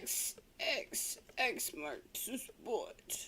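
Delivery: whispered catchphrase, slow and hushed; playful whisper. Pretend. Co-host chiming in on the silver talk, playful whisper. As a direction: whisper it slowly like a secret clue.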